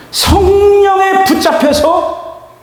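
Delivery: high, loud, drawn-out burst; stretched-out, fervent shout; emphatic preaching cry. Real, not acted. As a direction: cry it out slowly from the pulpit. Preacher hammers home the key phrase.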